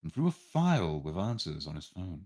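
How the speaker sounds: measured storyteller's read; story narration. A narrator's reading. Narrator telling players about the test day, story narration. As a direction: narrate it clearly, phrase by phrase.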